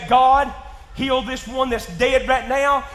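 loud, slow command to God; bold faith prayer. Retold or imitated. A believer commanding God to heal, loud and slow. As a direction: demand it in faith.

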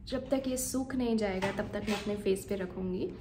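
talking through drying face mask; careful lip movement under mask; speaking with clay mask on. Real, not acted. Seen 0: Green clay mask covers her whole face while she talks.

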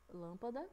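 lâmpada stressed on LÂM; stress on first syllable. Shown as a demonstration. Teacher comparing stresses for pupils, lâmpada stressed on LÂM. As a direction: hold the LÂM of lâmpada, questioning rise. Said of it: "a gente demora mais na hora de falar".

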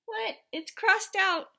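high, loud burst of disbelief; surprised. Acted. Reader discovers a crossed-out name on the call sheet, surprised. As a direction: exclaim it in startled surprise.

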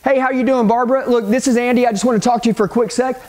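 casual, familiar phone opener; breezy call to a buddy; familiarity. Shown as a demonstration. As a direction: talk like you already know her.

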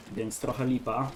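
talking through a blocked nose; stuffy nose, real cold. Real, not acted. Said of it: "teraz mam zatkany nos".

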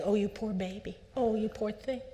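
a touch of high, coddling sympathy; lightly voiced parent fussing over a hurt girl; pitying parent. Parent coddling a daughter after a mistake, mildly pitying. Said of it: "by saying".

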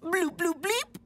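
"Bloop, bloop, bleep" with BLEEP jumping up high; quoting baby talk. Retold or imitated. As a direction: lift the last word, bleep, sharply. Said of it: "do you know what that adorable ball of squishiness said".

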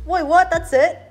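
sudden high, loud disbelief; surprised. Real, not acted. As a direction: caught off guard, voice jumps up. Realizing the test is over.

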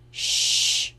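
breathless hushing shush; whispered shush. Acted. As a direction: hush them without any voice. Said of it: "whispered Dink".

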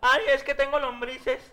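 slow mock nasal excuse; nasal gangoso voice. Juanito answers the man at the shop, a slow mock nasal voice. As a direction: whine it slowly through the nose. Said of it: "era gangoso".

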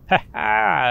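loud, high burst of real laughter; laughing. Real, not acted. Player laughing at himself for leaving the stairs, loud laugh. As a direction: laugh it off at your own blunder.

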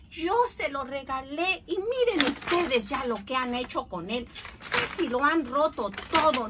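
más agudo y fuerte, reprendiendo; regaña a los muchachos con enojo; enojado. Acted. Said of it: "tío Nacho se enojó tanto". (tío Nacho regaña a los muchachos, enojado)

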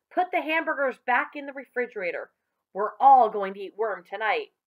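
rally the whole family to dinner; excited announcement. Acted. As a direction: jubilant acted announcement. Father announces worms for dinner.

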